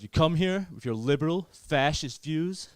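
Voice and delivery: indignant American, slowing at the end; drawn-out mock outrage; annoyed American cousin. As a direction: imitate an angry American teenager. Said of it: "He get really annoyed".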